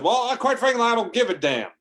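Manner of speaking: high, loud mock bluster; loud defiance. Trucker answering a blob rival's threat, loud high defiance.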